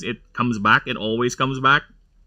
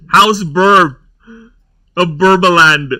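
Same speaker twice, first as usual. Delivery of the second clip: mock herald proclamation; 3 semitones higher, 5 dB louder than usual. Mock royal house proclamation.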